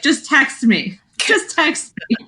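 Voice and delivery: rising, insistent mock mother; mock nagging mother. Imitating the mother nagging her son, insistent and rising. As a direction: nag like a fussy mum. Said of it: "his mother was like".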